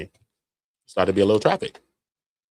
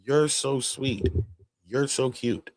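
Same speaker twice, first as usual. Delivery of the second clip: mock cooing at a dog; 2 semitones higher, 4 dB quieter, slower than usual. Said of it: "You could say that to a dog".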